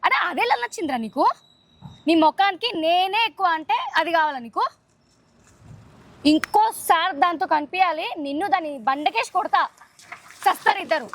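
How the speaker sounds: acted angry threat, punching the key lines; serious jealous threat. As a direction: threaten him like a jealous lover. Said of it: "ఒక type of seriousness నాకు కావాలి".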